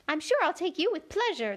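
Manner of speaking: high, fussy White Queen. A narrator's reading. Queen corrects Alice in a high fussy voice. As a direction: pitch the Queen up high and flustered.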